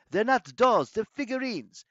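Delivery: put-on high, loud boy's protest; indignant boy. A narrator's reading. Nico correcting villain about his figurines, high indignant outburst. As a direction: object hotly, pitched high and loud.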